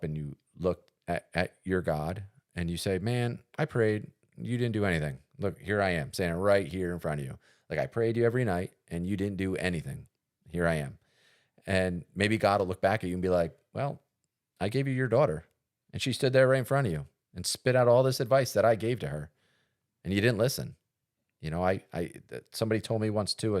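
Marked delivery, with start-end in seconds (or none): 3.0-11.0 raised pitch, mildly aggrieved plea; mock complaint. Believer complaining to God about unanswered prayers, mildly aggrieved. 13.7-20.8 higher-pitched, emphatic mock reproach; exasperated rebuke. God answering a complaining believer, exasperated.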